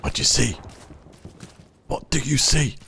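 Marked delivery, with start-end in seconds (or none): 1.9-2.8 much higher, singsong voice; high playful question. Acted. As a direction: ask it again in a lilting high voice. Playful repeated question to teammate.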